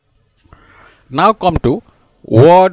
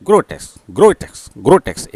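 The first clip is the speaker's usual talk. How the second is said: ग्रोटेस्क run together quickly as one word; quick, repeated ग्रोटेस्क; spoken speedily; 4 dB louder than usual. Shown as a demonstration. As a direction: rattle off ग्रोटेस्क with no break between gro and tesk. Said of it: "उसको स्पीडली बोलते हैं".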